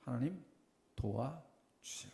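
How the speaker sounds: drawn-out slow 도와주세요; humble plea. Retold or imitated. Pastor showing his changed prayer to the congregation, slow humble plea. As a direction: humbly beg for help, slowly. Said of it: "제 기도가 어떻게 바뀌었는지".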